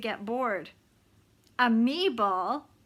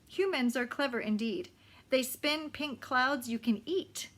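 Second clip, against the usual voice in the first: measured read-aloud with clear phrasing; storybook reading with emphasis on key words; story narration. A narrator's reading. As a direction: narrate a novel to listeners, pausing between phrases. Reads the novel aloud.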